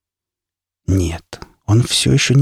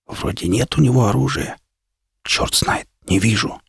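soft, half-voiced side-of-mouth whisper; whisper from mouth corner; 5 dB quieter than usual. A narrator's reading. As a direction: breathe it through twisted lips. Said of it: "скривив губы, краем рта прошептал".

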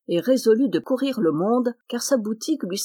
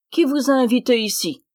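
high, loud indignant cry at the flies; annoyed shout; 4 semitones higher, 4 dB louder than usual. Acted. Tailor chasing flies off his bread, indignant shout. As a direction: shoo them off, indignant.

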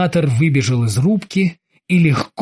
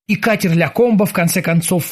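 plain reading voice

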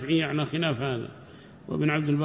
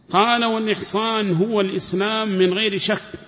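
higher, louder formal reading of the book; reading the text aloud; 6 semitones higher, 3 dB louder than usual. Acted. Teacher reads the commentary to his class, formal reading voice. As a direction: recite the scholar's words like a text read to students.

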